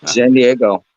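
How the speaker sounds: talking with a mouth full of food. Real, not acted. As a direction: answer through a bite of lunch. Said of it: "now that you have your mouth full".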